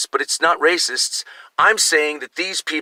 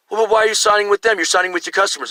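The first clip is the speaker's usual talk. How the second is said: higher-pitched, quick retold objection; mild pleading challenge to shop staff; retold protest; 5 semitones higher, faster than usual. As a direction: lightly act out an argument.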